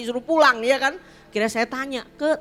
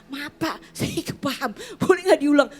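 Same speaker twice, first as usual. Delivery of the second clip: timid employee; 3 semitones higher than usual. Retold or imitated. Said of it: "Masa tiap hari".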